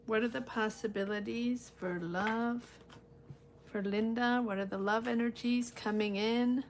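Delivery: hushed, meditative tarot query; card-reading invocation. Real, not acted. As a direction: ask the cards quietly, as if focusing inward. Intones questions to the cards.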